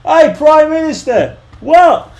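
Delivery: high, slow holler in mock Australian; Simpsons Australian. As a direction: call out like a cartoon Australian. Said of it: "it's the best Simpsons episode ever".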